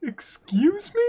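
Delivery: a high, breathy whispered disbelief; incredulous whisper. Real, not acted. Player reacts to the tiny screen in a high whisper. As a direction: whisper it like you can't believe it.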